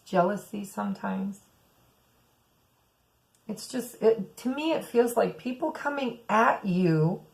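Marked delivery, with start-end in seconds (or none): none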